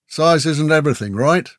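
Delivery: playful, slightly lifted teasing. A narrator's reading. Murrock joking with Grell about his axe, teasing. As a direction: tease a mate lightly. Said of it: "Murrock teased".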